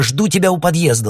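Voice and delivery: high, loud, breaking panic, rising on срочно; broken panicked plea. A narrator's reading. Alla calls her sister in panic, broken panicked voice. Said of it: "ломано выговорила Алла".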